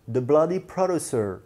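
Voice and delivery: lightly imitated British accent, drawn out; British presenter's accent. Vlogger quoting the British presenter's catchphrase, lightly imitated English accent. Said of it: "avec son accent anglais".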